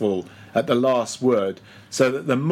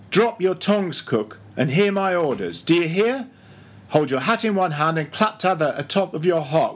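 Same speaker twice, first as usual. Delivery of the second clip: lightly voiced bossy mate, higher; mate Stubb hectoring; 4 semitones higher than usual. Stubb ordering the cook about, blustering.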